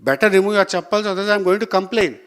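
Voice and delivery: firmly warn, quoting yourself; stern warning. Retold or imitated. Student warns man about his chappals, retold stern voice. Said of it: "in a very stern voice".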